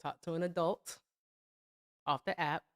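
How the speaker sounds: gently, one chunk at a time; soft repeated advice. Real, not acted. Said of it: "all I can advise".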